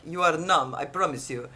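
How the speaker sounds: matter-of-fact imitated assurance, dropping low; firmly reassure, letting the pitch fall; retold dentist's assurance. Dentist insisting the patient is numb, falling firm assurance. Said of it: "he's like".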